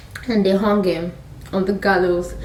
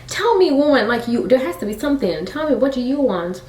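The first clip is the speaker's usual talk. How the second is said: higher, pleading demand; insistent king; 5 semitones higher than usual. Retold or imitated. King asking the queen at the banquet, insistent. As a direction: press her eagerly for an answer.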